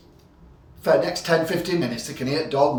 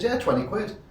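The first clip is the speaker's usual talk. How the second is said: barman voice; 9 semitones higher, 4 dB quieter than usual. Retold or imitated. Barman voiced in pub joke.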